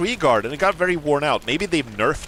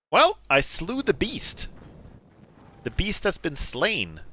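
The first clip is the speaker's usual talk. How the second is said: mock epic hero; 4 semitones higher, slower than usual. Mock epic victory declaration.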